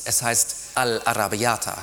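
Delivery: all'arrabbiata rolled in careful Italian; whispered correction. Retold or imitated. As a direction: correct her with a patient lilt. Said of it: "flüstert er".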